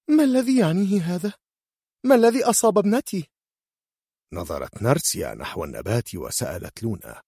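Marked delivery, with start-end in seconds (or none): 0.1-3.3 high, loud, fast panicked mother; frightened mother's high shriek; horrified cry. Acted. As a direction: cry out in terror for your daughter. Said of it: "شهقت كورديليا في رعب".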